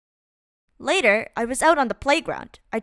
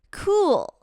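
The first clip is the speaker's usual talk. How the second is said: high, drawn-out admiring "Cool."; 8 semitones higher than usual. A narrator's reading. Narrator marvels at the cool beans' talents, admiring. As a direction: breathe it out in awe.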